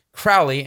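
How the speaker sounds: "Crowley" said as CRAU-lee; actual pronunciation. Shown as a demonstration. Minister states the true name, "Crowley" rhyming with "cow". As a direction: open "Crowley" with the "ow" of "now". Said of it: "The name is actually pronounced".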